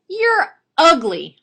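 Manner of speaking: high, loud, drawn-out parrot voice; slow, high bird heckle; insulting parrot. Acted. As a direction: squawk the insult slowly and loudly.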